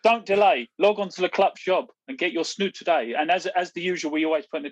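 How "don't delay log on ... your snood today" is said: hammed-up salesman urging listeners; mock hard sell. Host pitching the snood to listeners, hammed-up sales patter. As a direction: push the deal like a cheesy shopping channel.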